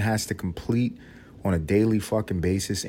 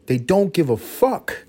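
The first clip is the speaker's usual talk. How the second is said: building rant; 9 semitones higher, 4 dB louder, slower than usual. Acted. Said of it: "escalating repetition".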